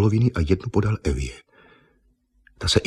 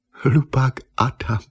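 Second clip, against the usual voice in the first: laughing; 6 semitones higher, slower than usual. Acted. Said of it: "zasmála se Eva".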